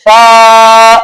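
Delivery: "فا" with a clean f and no whistling, vowel held long; fa without whistle. Shown as a demonstration. Teacher modelling correct فا for students, "فا" long and free of whistle. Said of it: "فا میں سیٹی کی آواز نہیں آنی چاہیے".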